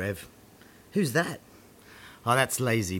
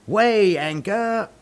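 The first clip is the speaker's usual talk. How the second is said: louder shouted order; 10 semitones higher, 5 dB louder than usual. Acted. Pirate orders repeated.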